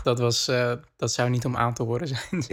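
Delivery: slightly hoarse from a cold; hoarse, still getting over the flu; sick voice. Real, not acted. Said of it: "Ik hoor het nu nog steeds een beetje in je stem". (hese, verkouden stem)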